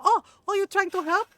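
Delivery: high, loud mock-amazed question; sarcastic disbelief. Aunt challenging the doctor's excuse, sarcastic disbelief. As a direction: imitate scornfully throwing his excuse back.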